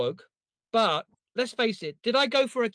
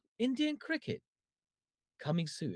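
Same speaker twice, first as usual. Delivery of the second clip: slow, deep, drawn-out movie-trailer announcer voice; 5 semitones lower, 11 dB quieter than usual. Recreating a trailer voiceover line that had to be slowed down: slowed-down trailer delivery. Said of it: "So I had to like slow it down".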